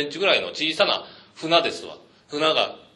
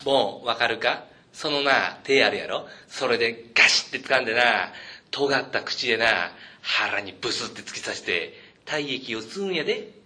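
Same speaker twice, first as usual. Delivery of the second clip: put-on Osaka old man; 4 semitones lower than usual. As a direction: menace a little boy with gruesome detail. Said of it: "言ってやろうかと思いましたけどね".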